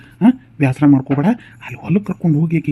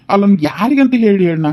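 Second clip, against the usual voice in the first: exasperated protest; 4 semitones higher than usual. Acted. Son exasperated between wife and mother.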